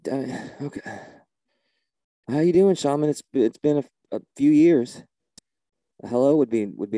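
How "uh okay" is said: baffled whisper. Acted. Baffled aside after odd answer.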